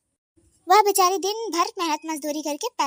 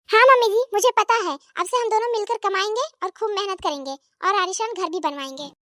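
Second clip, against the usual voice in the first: daughter-in-law; 3 semitones higher than usual. Acted.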